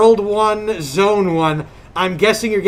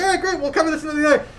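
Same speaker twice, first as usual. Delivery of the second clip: quoting Dan; 7 semitones higher, much faster than usual. Retold or imitated. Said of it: "And he was like".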